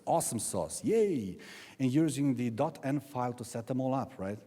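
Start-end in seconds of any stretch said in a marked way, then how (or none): 0.0-1.4 mock cheer. Speaker teases the hip crowd's cleverness, mock cheer. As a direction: cheer with put-on enthusiasm.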